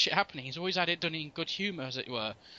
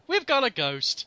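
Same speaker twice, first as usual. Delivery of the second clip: higher, louder drawn-out ghost alert; slow, raised call, hamming up the discovery; hammed-up announcement, slow and high; mock announcement; 8 semitones higher, 5 dB louder, slower than usual. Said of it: "I said just like later".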